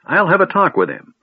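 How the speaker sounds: high, loud indignant shout; calling out. Acted. Old man shouting into the darkness for Fizban, high and loud. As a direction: yell into the dark at the stranger.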